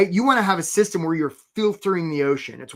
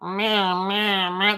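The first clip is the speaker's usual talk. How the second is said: mango imitation; 2 semitones higher, much slower than usual. Shown as a demonstration. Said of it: "I'm gonna do an imitation of a mango".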